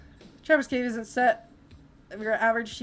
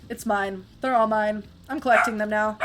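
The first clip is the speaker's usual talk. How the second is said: possessive, louder character line; greedy character voice; 5 dB louder than usual. Acted. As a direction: claim the coins like a hoarder.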